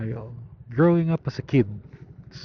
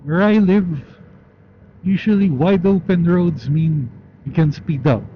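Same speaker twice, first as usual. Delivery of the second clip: loud; 6 semitones higher, 6 dB louder than usual. Real, not acted. Shouting over wind on motorcycle.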